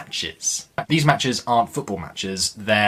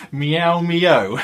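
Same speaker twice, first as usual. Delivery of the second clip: cat meow; 6 semitones higher, 5 dB louder than usual. Acted. Cats in the story speak.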